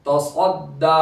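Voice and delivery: तसद्दा with दा held long; stretched final दा. Shown as a demonstration. Teacher shows the alif madda, last vowel of तसद्दा held. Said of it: "एक अलिफ के बराबर खींचेंगे".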